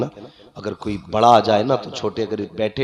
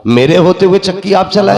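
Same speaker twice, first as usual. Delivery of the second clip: raised, declaimed protest; proclaimed objection, pitched up; acted protest; 11 semitones higher, 11 dB louder than usual. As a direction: quote it as a respectful objection. Gabriel's protest voiced by preacher.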